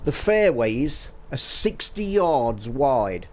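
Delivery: slow, deadpan, dryly sarcastic; Rory's deadpan put-down, slow and dry; dry sarcasm. Retold or imitated. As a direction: state it slowly as if it's obvious. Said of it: "a dry sarcasm".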